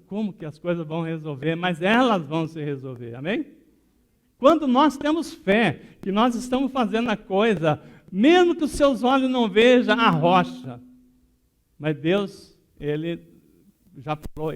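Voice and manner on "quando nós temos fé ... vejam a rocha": loud, high, emphatic sermon voice; forceful preaching. Acted. Preacher urging the church to have faith, loud and forceful. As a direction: proclaim faith to the congregation at full force.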